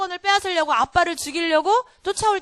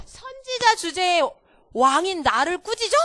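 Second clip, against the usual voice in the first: haughty, sneering, slowed start with a high jump; mock arrogant king; 3 semitones higher than usual. Teacher voicing a proud king scorning the prophet. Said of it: "이랬을까요?".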